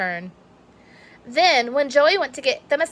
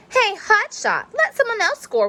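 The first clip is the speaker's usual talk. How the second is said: teasing complaint; 12 semitones higher than usual. Acted. Friend scolds ball hog.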